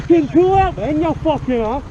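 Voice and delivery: furious yell. Real, not acted. Road rage row with cyclist.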